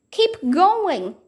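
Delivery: high urgent shout; shouted urging. Acted. Jack shouting to Annie while running. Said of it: "Jack shouted to Annie".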